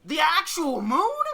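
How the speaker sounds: high, loud disbelieving yell; drawn-out shriek of disbelief; dumbfounded. Acted. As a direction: echo it back, utterly incredulous. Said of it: "Maka is dumbfounded by this".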